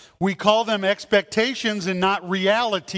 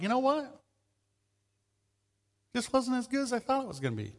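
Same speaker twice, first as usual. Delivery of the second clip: much softer, quick disappointed aside; let-down diner; 4 semitones higher, 8 dB quieter, faster than usual. Retold or imitated. Diner disappointed by a hyped restaurant, soft quick aside. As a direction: mutter the letdown under your breath. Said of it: "you're like".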